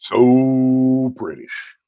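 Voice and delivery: slow, drawn-out mock British so British; mock British accent. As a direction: lightly poke fun in a British accent. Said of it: "making fun of your accent".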